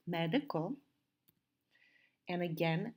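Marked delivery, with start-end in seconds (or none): 0.1-0.8 medical in three careful, even syllables. Shown as a demonstration. Teacher counts three syllables for students, medical said syllable by syllable. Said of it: "this has three syllables".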